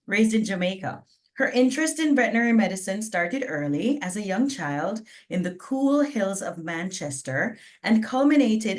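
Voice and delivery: lightly twanged, hammed-up American accent; put-on American twang. Shown as a demonstration. Host jokingly introducing the Jamaican-born vet, put-on American twang. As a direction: read the bio with a playful American twang. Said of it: "I have to do it in my accent".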